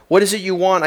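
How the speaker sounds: a touch of an irritated father snapping, lightly voiced; impatient question, only hinted; mild snap. A narrator's reading. Father reading in the library, interrupted by his son, mild snap. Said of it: "I snapped".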